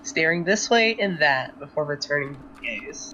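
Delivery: calm, even narrator voice; story narration. A narrator's reading. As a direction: narrate the scene steadily. Narrates Rue's actions.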